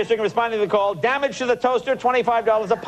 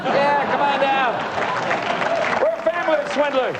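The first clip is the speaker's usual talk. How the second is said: lightly voiced huckster pitch, a bit higher; hint of a cheesy dealer calling customers in; mock car salesman; 5 semitones higher than usual. Host mimics the car dealer's ad, lightly voiced huckster.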